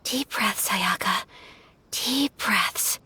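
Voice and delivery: soft, hushed words to steady her nerves; calming self-talk. Acted. Ayaka steadying herself before inviting the Traveler, hushed. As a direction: murmur it to yourself, nearly a whisper.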